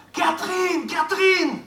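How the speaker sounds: high, carrying call across the yard. Acted. Lover calling up to the window, high call. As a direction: call her name from outside.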